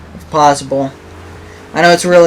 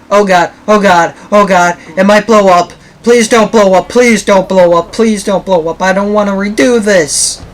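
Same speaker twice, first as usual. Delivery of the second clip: terrified gibbering; 3 semitones higher than usual. Real, not acted. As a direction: beg it not to blow up. Pleading van won't explode.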